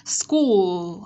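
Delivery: "School" stretched onto a dark final l; isolated demo of "School" with final l; curled-tongue L. Shown as a demonstration. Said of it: "sẽ uốn cong lưỡi này để phát âm".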